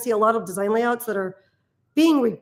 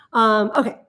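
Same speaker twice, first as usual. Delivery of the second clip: whispered aside. Real, not acted.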